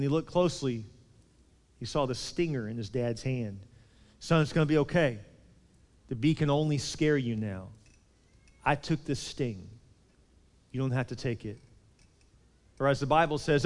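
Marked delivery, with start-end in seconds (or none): 4.2-11.6 gentle reassurance. Retold or imitated. Dad comforts son after the sting.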